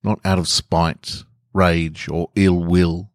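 calm, even storytelling voice; story narration. A narrator's reading. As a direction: read the short story steadily aloud. Reads dictionary entry and story.

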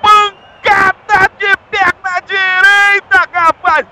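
explosive goal commentary. Real, not acted.

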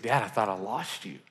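soft whisper, a hint of a scared boy; whispered son's words. Tearful son finds his dad at school, whispered. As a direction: whisper it like a frightened kid.

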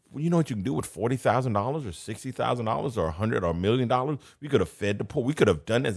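mock indignation. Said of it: "And they're indignant".

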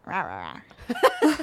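half-hearted wolf growling; mock wolf growl. Host joining cohost's wolf image, mock growl. Imitates the pack of wolves.

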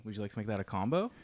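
quiet polite upsell; upselling cashier. Acted. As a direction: offer the combo sweetly.

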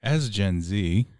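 lightly put-on slow radio host. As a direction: read it out slowly, a touch like a radio host. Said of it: "That was my radio voice".

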